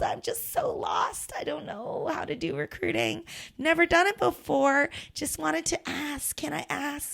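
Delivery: slow, high, unsure, hesitant rambling. Showing how a caller sounds when presenting themselves badly: sounding lost and unsure. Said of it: "presenting yourself as a young twenty-three-year-old".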